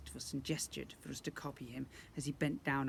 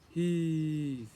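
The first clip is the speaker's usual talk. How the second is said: loud strained goblin heave; goblin grunting heave; 8 dB louder than usual. Acted. Goblin servants straining at the chariot, loud heave. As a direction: heave it like hauling a load.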